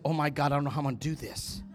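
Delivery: hurried muttered worry. Retold or imitated. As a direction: rush it under your voice, lightly worried. Retelling his own nervous thought.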